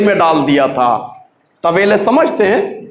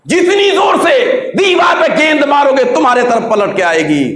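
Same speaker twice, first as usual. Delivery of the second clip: preaching emphasis; 6 semitones higher than usual. Real, not acted. Preacher driving home the moral.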